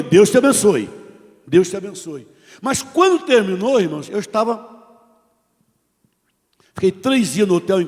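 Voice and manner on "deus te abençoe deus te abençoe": a louder, firm blessing. Retold or imitated. Preacher answering the insults with a firm blessing. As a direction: bless him back with conviction. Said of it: "E eu respondi".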